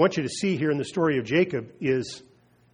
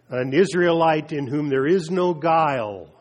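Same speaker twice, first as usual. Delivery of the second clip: louder, ringing declaration; proclaiming aloud; 2 semitones higher, 6 dB louder than usual. Acted. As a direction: announce it to the crowd. Jesus greets Nathanael, proclaiming.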